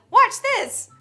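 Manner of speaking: high, loud excited yell; drunk shout. Retold or imitated. Drunk teen calling to partygoers, excited shout. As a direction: hype up the crowd. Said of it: "Ran up to a group of people and said".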